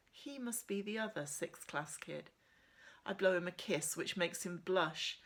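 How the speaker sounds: steady first-person reading of a novel; measured storybook narration; story narration. A narrator's reading. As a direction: read it like a teen heroine telling her story. Reads novel chapter aloud.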